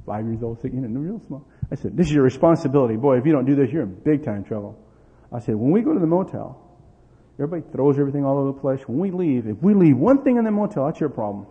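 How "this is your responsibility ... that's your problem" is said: loud, fast stern dad laying down the law; booming stern father warning; stern father lecture. Retold or imitated. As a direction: lay down the rules to a little kid. Father lecturing small son sternly.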